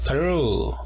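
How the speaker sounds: "Perú" said the English way, puh-ROO; stress on second syllable. Shown as a demonstration. Teacher models English "Perú" after the rule, stress on second syllable. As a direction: land on a long ROO in "Perú". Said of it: "el apóstrofo en la segunda sílaba".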